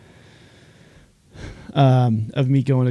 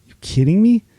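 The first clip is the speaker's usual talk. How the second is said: high, loud disbelief; incredulous yelp; 8 semitones higher, 6 dB louder than usual. Retold or imitated. Student retelling being sent home, loud incredulous cry. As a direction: shoot up in outrage.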